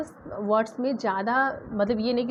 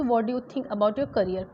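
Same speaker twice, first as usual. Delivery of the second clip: slow example sentence; much slower than usual. Shown as a demonstration. Teacher modelling an English sentence, slow and clear. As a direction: read it slowly, word by word. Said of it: "मैंने simple सा question किया".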